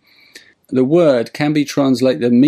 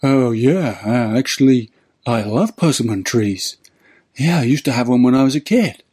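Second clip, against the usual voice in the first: lolling tramp. Retold or imitated. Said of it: "and the tramp, who's just sort of standing there lolling".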